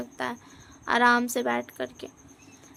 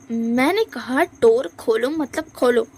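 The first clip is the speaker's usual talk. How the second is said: stern command; 4 dB louder, slower than usual. Acted. Lanjan orders Wing.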